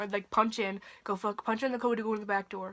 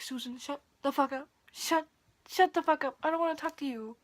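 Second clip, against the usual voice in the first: irritated retort; 4 semitones higher than usual. Retold or imitated. Retold angry retort to former boss.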